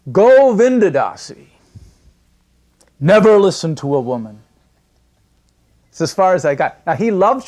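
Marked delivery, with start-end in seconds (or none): 0.1-4.4 mock stern guru. Guru teasing disciple.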